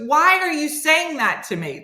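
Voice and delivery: high-pitched indignant imitation; mock mad. Friend reacting to being told sweet dreams, mock mad. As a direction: act out an affronted friend, pitch jumping up. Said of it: "He got violently mad".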